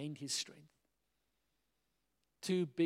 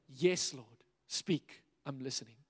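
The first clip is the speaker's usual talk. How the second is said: humble answer; 3 semitones lower than usual. Shown as a demonstration. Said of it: "Just say".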